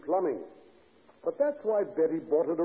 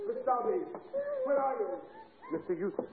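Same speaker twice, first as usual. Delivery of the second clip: high urgent call for help; 12 semitones higher than usual. Acted. Calling for help from below.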